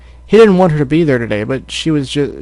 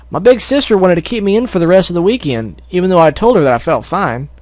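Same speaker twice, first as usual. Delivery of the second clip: higher filly voice; Apple Bloom voice; 5 semitones higher than usual. Acted. Apple Bloom telling friends, higher voice. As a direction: play the farm filly.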